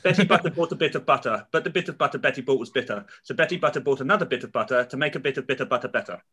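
rattled-off tongue twister; a careful tongue twister recital. Shown as a demonstration. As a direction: recite it like a party trick. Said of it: "I have a tongue twister".

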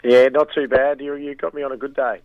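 hoarse croaky voice; a raspy throat still recovering; frog voice. Real, not acted. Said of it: "Mister Croaky Voice".

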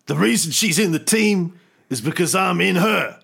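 swaggering Nick Fury bit; a lightly voiced cocky Fury, bragging to the team; playing Nick Fury. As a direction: boast it like a cocky boss. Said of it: "Nick Fury was like".

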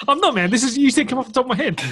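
high laughing protest. Real, not acted.

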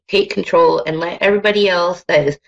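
usual speaking voice

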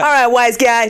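playful New York wise-guy accent; New Yorker accent. Shown as a demonstration. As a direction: put on a bit of New Yorker. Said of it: "Do a New Yorker accent".

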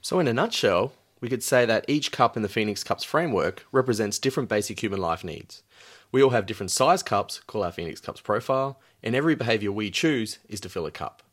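lightly voiced TV host; a hint of a chatty talk show host. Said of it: "That was my best talk show host voice".

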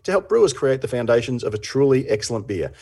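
upbeat sponsor read; lightly voiced sponsor message. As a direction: sell it like a radio ad.

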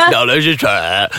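talking through a mouthful; words garbled by food in mouth; mouth full. Real, not acted. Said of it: "there's something in my mouth".

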